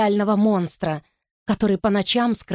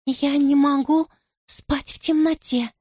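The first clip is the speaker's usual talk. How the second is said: creepy whisper; 7 semitones higher than usual. Acted. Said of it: "оно шепчет мне на ухо".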